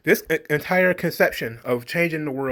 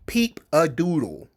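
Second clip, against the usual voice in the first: mocking repeat; slower than usual. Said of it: "Hey, peep-a-doodles".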